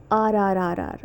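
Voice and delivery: "R R R R" as a repeated American r; "R R R R", every r fully sounded. Shown as a demonstration. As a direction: roll through "R R R R" as rhotic r sounds. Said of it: "in American accent, the E R pronounced as".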